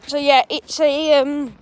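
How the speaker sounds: hiccuping mid-sentence; suppressing hiccups. Real, not acted. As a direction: talk through hiccups. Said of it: "sorry, I've got hiccups".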